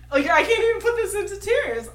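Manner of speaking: laughing while talking; giggly, tripping over words. Real, not acted. Laughs at own slip.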